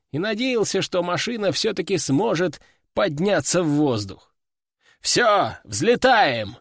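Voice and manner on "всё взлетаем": commanding order. Acted. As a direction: bark the takeoff order. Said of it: "приказал он".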